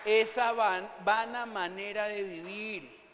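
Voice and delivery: loud, slow, emphatic call from the pulpit; forceful preaching. Real, not acted. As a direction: drive the words home to the crowd. Preacher exhorts the congregation.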